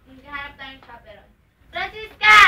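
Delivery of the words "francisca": calling out. Acted. Calling the maid.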